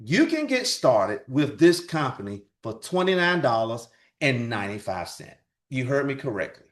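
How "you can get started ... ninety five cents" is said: slow, spelled-out price announcement; deliberately slow. Shown as a demonstration. Presenter wants listeners to catch the price, deliberately slow. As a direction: say it slowly so every word gets caught. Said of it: "I'm gonna say it slow".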